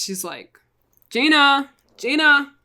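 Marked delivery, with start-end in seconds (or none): 1.1-2.5 louder, higher calling; calling a name outdoors. Retold or imitated. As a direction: call across the backyard. Agent calling into the yard.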